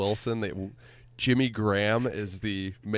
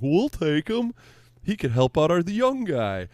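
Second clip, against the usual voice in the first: mock eager team; 8 semitones higher, 4 dB louder than usual. Bears voiced eagerly accepting.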